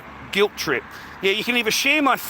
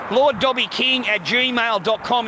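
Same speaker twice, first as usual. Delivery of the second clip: slow dictation; 3 semitones higher, slower than usual. Real, not acted.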